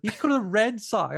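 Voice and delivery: put-on high, thick New York accent, yelling; a shouting kid with a thick New York accent. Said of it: "screaming in the thickest New York accent".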